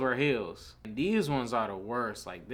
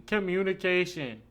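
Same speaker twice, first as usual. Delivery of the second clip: higher-pitched mimicry of a complaint; mocking women's complaint; 6 semitones higher than usual. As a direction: mimic their pet word in a higher voice. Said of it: "I hate when they be".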